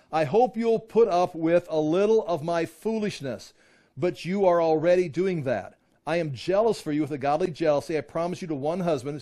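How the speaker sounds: emphatic reading aloud of an epistle; scripture reading. A narrator's reading. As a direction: read the verse out firmly to the class.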